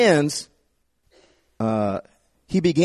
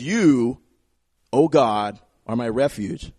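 devout trust; 5 semitones lower, slower than usual. Acted. Quoting David's trust.

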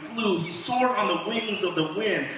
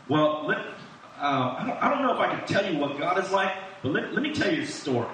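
chuckling father; faster than usual. Retold or imitated. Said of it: "It's like".

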